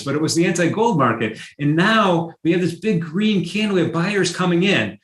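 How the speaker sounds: excited, high-pitched rush of discovery; really excited. Real, not acted. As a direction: get carried away by the market move. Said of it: "I'm getting really excited about this".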